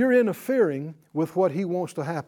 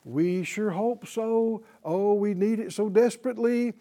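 waver like someone unsure, lightly mocked; mildly hammed-up hopeful uncertainty; 3 semitones higher than usual. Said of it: "you're wavering".

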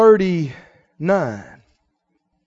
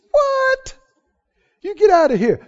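scoffing brothers; 13 semitones higher than usual. Acted.

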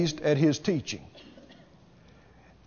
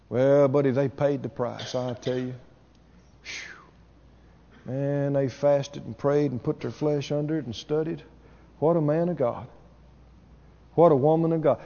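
softer, hushed mock awe; mock admiring onlooker; 7 semitones lower, 7 dB quieter than usual. Preacher imitating churchgoers praising a minister, hushed mock awe. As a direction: lightly imitate folks marveling at a minister.

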